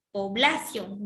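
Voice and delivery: población with the stress on the middle syllable bla. Shown as a demonstration. Teacher testing a wrong stress on población. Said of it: "Si está en bla".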